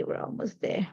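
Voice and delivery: ordinary talk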